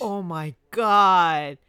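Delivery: very slow, loud and drawn out; drawn-out oh my God. Real, not acted. Hearing the story, slow loud disbelief. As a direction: stretch it out in disbelief.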